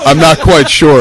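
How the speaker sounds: mock dazed voice. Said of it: "I haven't slept in three days".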